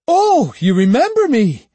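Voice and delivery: high, loud defiant shout. A narrator's reading. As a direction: yell it before the attack. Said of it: "Iori shouted".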